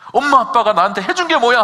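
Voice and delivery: put-on 게 hit hard in "해준 게 뭐야", loud defiant teen; teen talking back. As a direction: snap back like a sulky teenager. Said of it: "부모님에게 막 대듭니다".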